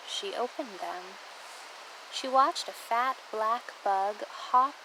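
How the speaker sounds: measured poem recital with phrase-by-phrase pauses; poem reading. Real, not acted. Hiker sharing a trail poem about stopping, measured recital. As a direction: read it as verse, pausing between images.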